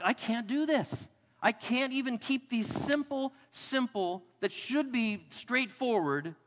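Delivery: worked-up, acted exasperation at failing; exasperated. Preacher voices his own failure before the law, exasperated.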